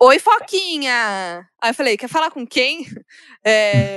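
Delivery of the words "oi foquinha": put-on young person's voice. Retelling how someone greeted them, imitating a young person's voice. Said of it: "com voz de jovem".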